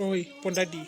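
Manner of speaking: understated, fond call to a wife; affectionate call. Acted. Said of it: "என்ன இப்பதான் பாசமா கூப்பிடுறீங்க".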